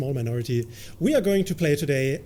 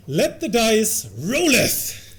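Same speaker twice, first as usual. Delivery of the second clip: mock archaic; 7 semitones higher, 3 dB louder, much slower than usual. Shown as a demonstration. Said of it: "I would say".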